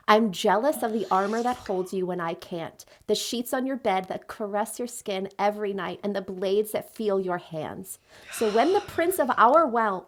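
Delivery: measured dramatic reading of a lover's jealous speech; lightly acted romantic monologue; book quote read aloud. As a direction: read it like an understated audiobook confession. Reads Zayden's speech from the book.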